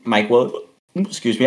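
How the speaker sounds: talking through hiccups. Real, not acted. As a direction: cut off by a hiccup. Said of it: "I've got the hiccups".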